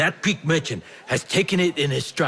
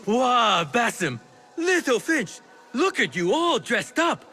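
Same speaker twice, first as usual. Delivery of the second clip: much higher, overjoyed greeting; old merchant gushing over a grown-up friend; delighted recognition; 9 semitones higher than usual. Acted. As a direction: burst with joy at seeing him.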